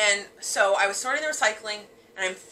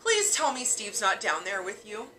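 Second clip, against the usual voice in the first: pleading. Retold or imitated. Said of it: "And I was like".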